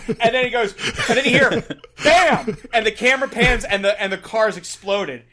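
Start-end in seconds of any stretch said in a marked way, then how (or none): 2.0-2.5 loud, high punched-out "Bam!"; big comic sound-effect shout; imitated explosion. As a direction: burst out with it like a sudden blast.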